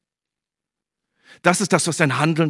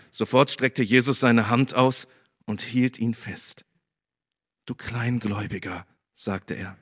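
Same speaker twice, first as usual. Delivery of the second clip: lively scripture reading to the congregation; Bible reading. Acted. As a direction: tell the gospel story with life. Reads Bible passage aloud. (lebendige Bibellesung)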